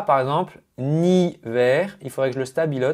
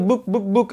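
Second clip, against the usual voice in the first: register flips; 7 semitones higher than usual. Shown as a demonstration. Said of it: "d'une syllabe à l'autre".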